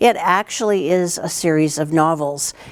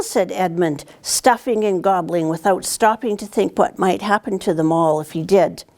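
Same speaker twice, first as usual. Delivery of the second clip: storybook reading; 3 semitones higher than usual. A narrator's reading. Teacher reads picture book aloud.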